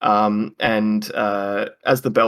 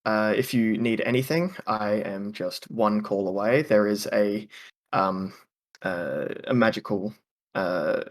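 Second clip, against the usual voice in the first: flustered hostess. Acted. Halfling woman fumbling to explain the call bell to guests. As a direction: fumble for the word, then recover. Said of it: "she says".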